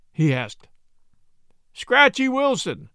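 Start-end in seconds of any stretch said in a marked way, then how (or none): 1.7-2.9 slow, loud, high chorus of dread; answered in chorus. A narrator's reading. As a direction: say the name like everyone at once, slow and loud. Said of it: "they all answered in chorus".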